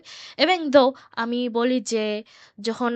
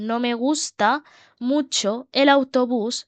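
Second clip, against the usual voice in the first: slow, broken into short chunks with pauses; slow dictation; much slower than usual. Shown as a demonstration. Teacher repeats the model sentence for learners, slow dictation. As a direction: pause after "gusta", then draw out "mucho el autobús".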